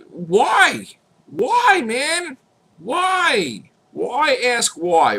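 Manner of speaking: high, stretched pleading whys; exasperated high-pitched why. Real, not acted. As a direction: plead with the haters, drawing it out. Exasperated at haters.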